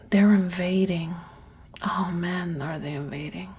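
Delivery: a hushed, breathy whisper to herself; whispering, overwhelmed by her own thoughts. Real, not acted. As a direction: let it slip out under your breath. Quietly dwelling on invading thoughts.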